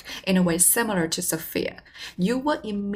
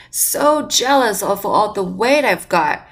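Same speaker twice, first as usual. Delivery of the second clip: slow, louder mock boast; playful boast; 6 dB louder, slower than usual. Shown as a demonstration. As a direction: draw it out loudly as a joking comeback. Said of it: "you can say something like".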